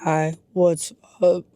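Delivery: slow robot-like greeting; robotic voice. Retold or imitated. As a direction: talk slowly like a mellow robot. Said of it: "sounding more robotic".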